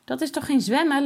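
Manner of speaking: put-on amused child laughing at ducklings. A narrator's reading. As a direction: giggle through the words. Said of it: "lacht Jasper".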